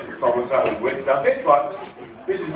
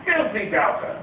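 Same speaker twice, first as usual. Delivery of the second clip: mock outraged shout; 13 semitones higher, slower than usual. Christ mock-scolding Thomas for doubting, hammed-up shout. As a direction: bellow it like a pantomime accuser.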